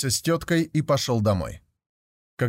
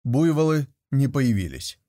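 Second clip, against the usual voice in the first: plain reading voice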